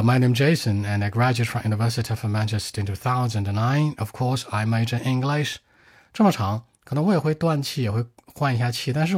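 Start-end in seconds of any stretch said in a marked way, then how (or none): 0.0-5.6 one breath. Shown as a demonstration. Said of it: "做个示范啊".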